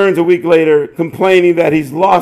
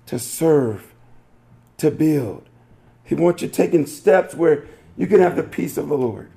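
soft preaching; 2 semitones lower, 4 dB quieter than usual. Real, not acted. Pastor turning the joke toward God, hushed earnest preaching.

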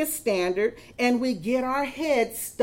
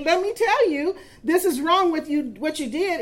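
stern threat; 4 semitones higher than usual. Retold or imitated. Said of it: "I have to near threaten and say".

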